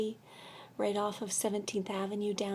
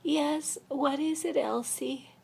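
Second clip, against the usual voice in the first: acted patient reply; 7 semitones higher, slower than usual. Acts out own answer at night.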